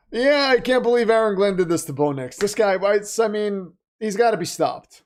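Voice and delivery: hammed-up outrage about a rival coach; mock outrage. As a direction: rail against him in jest.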